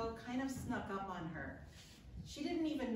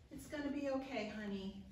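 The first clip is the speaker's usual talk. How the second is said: higher-pitched soothing reassurance; comforting; 4 semitones higher than usual. Retold or imitated. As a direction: comfort your sick sweetheart, easing down onto the endearment. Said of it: "feels like a comforting thing to say".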